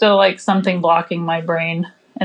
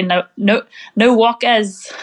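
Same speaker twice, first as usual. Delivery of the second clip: a bad, half-hearted Australian accent; slower than usual. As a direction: try the Australian slang, badly. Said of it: "That was so bad".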